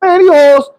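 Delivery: lightly put-on Caribbean lilt; mild Caribbean-accented woman. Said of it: "she had a little accent like she was from the Caribbean".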